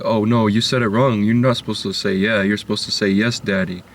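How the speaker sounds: lightly voiced condescending predator; a hint of a smug creep correcting; mocking creep voice. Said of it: "people are all like".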